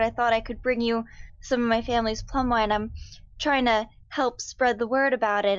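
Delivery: innocent charm. Acted. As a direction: sell the plum wine innocently. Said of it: "great job there".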